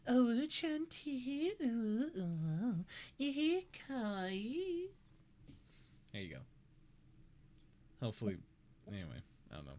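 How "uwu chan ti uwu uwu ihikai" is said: high, drawn-out cutesy anime squeal; string out the cute sounds high and long; high-pitched kawaii babble; cutesy uwu voice. Pretend. Performs string of cutesy internet words.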